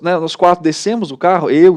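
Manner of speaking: ordinary talk, nothing marked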